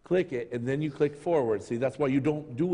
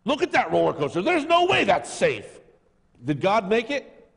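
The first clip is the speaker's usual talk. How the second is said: mock fear; 6 semitones higher, 5 dB louder than usual. Acting fearful inner voice.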